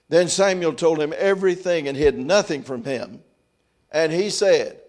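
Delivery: firm, projected Bible reading; scripture reading. Acted. Preacher reads Eli questioning Samuel, firm reading voice. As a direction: read the verses out with steady force.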